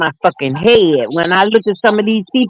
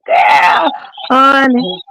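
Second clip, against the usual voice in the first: laughing; 2 semitones higher, much slower than usual. Real, not acted. Laughing exclamation.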